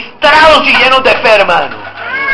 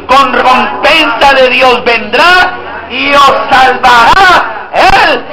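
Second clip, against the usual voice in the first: slow, declaimed Bible reading in unison; solemn scripture recitation; slower than usual. Acted. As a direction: read it out with strong faith. Congregation reads Isaiah aloud.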